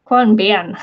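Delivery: "Quan Bian" in a put-on Aussie accent; attempted Aussie accent. Shown as a demonstration. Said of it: "get my Aussie accent going".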